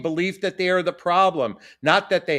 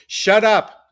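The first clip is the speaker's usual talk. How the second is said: sharp, loud scolding parent; harsh put-down; 3 semitones higher, 6 dB louder than usual. Acted. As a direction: bark it like a cutting parent. Parent silencing a child.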